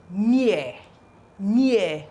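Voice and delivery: "near" said alone as nee-eh; "near" as a teaching word, no final r; ni sound. Shown as a demonstration. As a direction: repeat "near" separately, starting with ni. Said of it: "This is sounding ni now".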